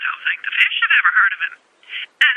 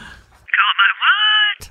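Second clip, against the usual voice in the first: incredulous; 5 semitones higher, much slower than usual. Acted. Wife baffled by odd nickname.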